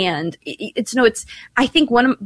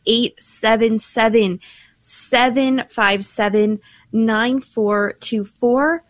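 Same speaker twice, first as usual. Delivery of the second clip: slow, careful number read-out; measured on-air phone number; slower than usual. Acted. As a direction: spell out each digit slowly for callers. Reading the call-in number.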